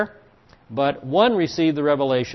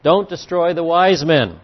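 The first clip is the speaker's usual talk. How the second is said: firm, louder quoted command; strong statement; 3 semitones higher, 6 dB louder than usual. Acted. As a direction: state it forcefully, as a firm order. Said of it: "he makes this strong statement".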